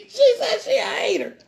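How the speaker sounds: high, loud laughing cry; delighted loud cackle then the line; laughing outburst. Real, not acted. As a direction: burst out laughing and call it out. Laughing at a viewer comment.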